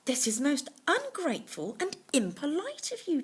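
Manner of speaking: a touch of an upset monk; indignant monk. Acted. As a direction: exclaim in protest. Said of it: "exclaimed the monk".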